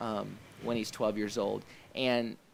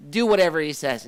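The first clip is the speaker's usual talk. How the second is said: a hint of a firm Jewish mother, louder; 4 semitones higher, 9 dB louder than usual. Retelling the wedding scene, a louder hint of a firm Jewish mother. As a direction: lightly play the no-nonsense mama. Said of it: "like a Jewish mother at that point".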